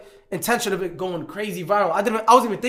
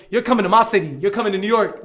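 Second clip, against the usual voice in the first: louder, insistent hometown challenge; retold brash warning; 2 semitones higher, 6 dB louder, faster than usual. Telling a passenger whose city it is, brash retold warning. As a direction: put her on notice, imitating the confrontation.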